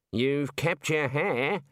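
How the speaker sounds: slow, drawn-out encouragement; encouraging. A narrator's reading. Senior wrangler consoles aged Ponder, slowly encouraging. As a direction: offer slow, kindly consolation. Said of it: "said the senior wrangler encouragingly".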